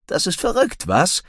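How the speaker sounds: high-pitched, excited exclamation; excited call. A narrator's reading. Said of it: "rief jemand aufgeregt".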